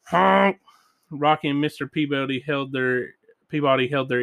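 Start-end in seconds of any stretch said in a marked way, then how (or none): 0.0-0.6 higher imitated moose honk; happy honk. A narrator's reading. Reader voices the moose's honk, happy honk. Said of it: "gave a long, happy".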